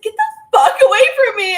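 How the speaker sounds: high, loud acted-out yell; retold panicked yell. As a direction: yell it as if fending off an attacker. Retells fending off the entity.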